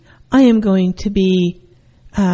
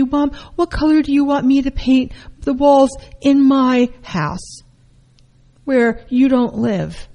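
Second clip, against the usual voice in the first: sarcastic retort; 4 semitones higher than usual. Retold or imitated. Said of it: "retold answer to mom".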